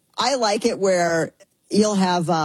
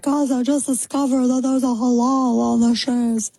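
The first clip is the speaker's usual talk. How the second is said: put-on airhead girl voice; 6 semitones higher than usual. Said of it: "some chick was like".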